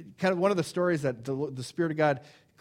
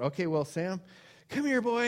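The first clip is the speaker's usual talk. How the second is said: higher, coaxing call to a dog; 4 semitones higher than usual. Retold or imitated. Owner coaxing his dog Sam around the pole, high call. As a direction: sweetly call the dog over. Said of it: "I thought".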